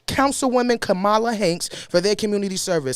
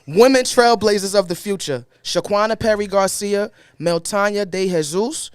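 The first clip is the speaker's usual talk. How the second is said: animated formal read. Acted. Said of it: "I'ma say it, but not regular".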